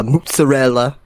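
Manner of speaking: a touch of Italian in "mozzarella"; lightly Italian-accented "mozzarella"; Italian pronunciation. Real, not acted. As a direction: let some Italian out on "mozzarella". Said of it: "that's my Italian coming out".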